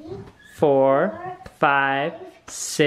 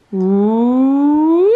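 cheer; 7 dB louder than usual. Real, not acted. Cheering the dice roll.

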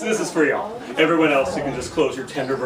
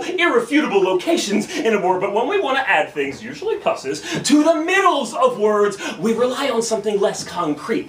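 emphatic, rhythmic spoken-word lecture; slam poetry; 6 semitones higher than usual. Acted. Poet teaching the crowd about infixes, slam poetry. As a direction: punch the openings and explain it like a performer.

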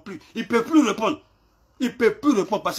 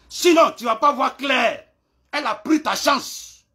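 slow shouted warning; 5 semitones higher than usual. Real, not acted. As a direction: bark the warning out slowly, word by word. Warning rival in a clash video.

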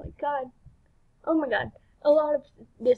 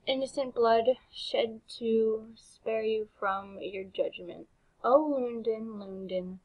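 measured verse recital, falling away at line ends; spoken song lyrics. Acted. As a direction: recite it solemnly without singing. Reads song lyrics without singing.

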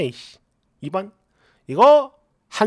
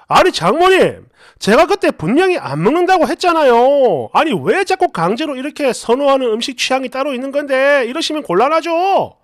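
mock angry husband. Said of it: "버럭버럭 화를 내는 거예요".

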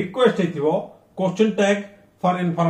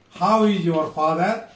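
how is your father, lifting on father; rising tone. Shown as a demonstration. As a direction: friendly question rising at father. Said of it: "we should raise our tone".

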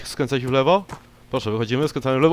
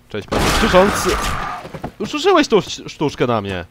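mock-loud greeting; 6 semitones higher, 6 dB louder than usual. Real, not acted. Mocking the shouting NPC.

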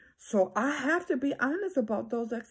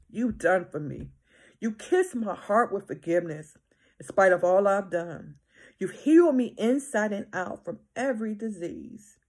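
scripture reading; 3 dB louder than usual. Acted. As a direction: read it like a prayer from the pulpit. Continues reading the psalm.

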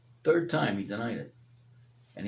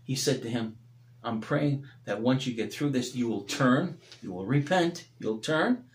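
tender preaching; 2 semitones lower than usual. Acted. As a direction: gently draw them to grace.

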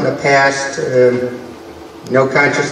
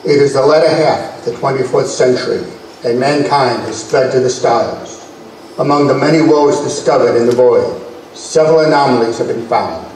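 measured, dramatic serial narration; old sci-fi announcer. A narrator's reading. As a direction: open the story like a retro sci-fi reel.

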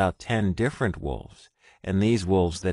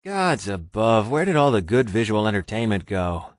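moaning complaint; 2 semitones higher, 5 dB louder than usual. Acted. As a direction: groan about the TV. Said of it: "Richard moaned".

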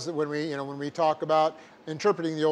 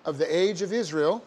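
dictating. Shown as a demonstration. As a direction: dictate it word by word, punctuation aloud.

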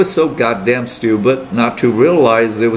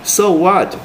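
a flat, dismissive "So what?"; cold "so what"; 8 semitones higher than usual. Retold or imitated. To his roommate, cold and dismissive. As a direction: shrug it off coolly. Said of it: "cold as hell".

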